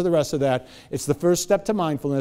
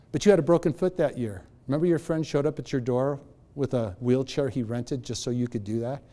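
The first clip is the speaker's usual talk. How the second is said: gentle inner voice; 2 semitones lower, 6 dB quieter than usual. Retold or imitated. Inner voice reminding him gently.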